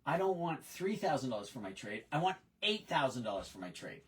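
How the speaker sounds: a lightly voiced stubborn customer, flat and firm on "eight thousand"; voicing a customer. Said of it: "think like a customer".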